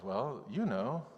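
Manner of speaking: evasive dodge. Retold or imitated. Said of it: "Ezekiel says".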